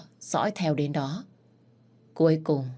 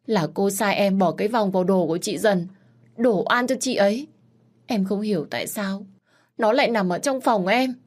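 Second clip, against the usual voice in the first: frantic confession; 4 semitones higher, 3 dB louder than usual. Acted. Maid exposes mistress.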